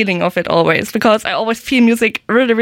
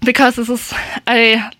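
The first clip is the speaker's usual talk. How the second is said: out of breath. Real, not acted. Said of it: "I'm a little bit out of breath".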